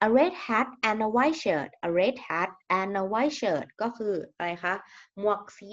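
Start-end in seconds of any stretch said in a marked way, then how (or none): 0.1-3.7 very slow, careful model reading; slow example reading. Shown as a demonstration. Teacher modelling an example phrase for the class, slowly. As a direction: say it slowly so students can copy.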